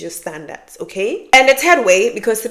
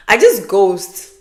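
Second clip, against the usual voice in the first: laughing; 5 dB louder, much slower than usual. Real, not acted. To viewers, laughing about ghosting men. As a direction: laugh through it, drawn out slowly.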